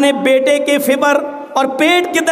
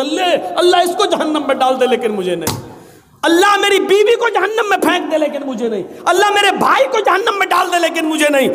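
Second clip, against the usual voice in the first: acted desperate plea; 3 semitones higher than usual. Acted sinner bargaining with Allah.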